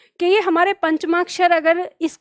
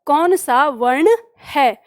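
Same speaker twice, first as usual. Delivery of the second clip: slow exam question; slower than usual. Shown as a demonstration. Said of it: "प्रश्न किया जाता है".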